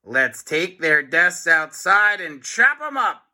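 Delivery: gleeful teacher voice; mean teacher cheering. A narrator's reading. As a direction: relish the idea. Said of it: "cried Miss Ribble".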